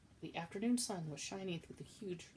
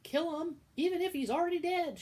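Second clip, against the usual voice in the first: high, loud shout; shouted order; 12 semitones higher, 12 dB louder than usual. Acted. Cook shouting at Midge over the mouse, high loud shout. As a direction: bellow the order. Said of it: "shouted Cook".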